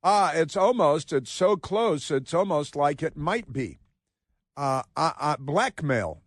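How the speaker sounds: slow mock of hedge words, drawn out; sarcastic imitation of the hedging. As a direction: parrot the waffling to ridicule it. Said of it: "did you hear all the hedge words".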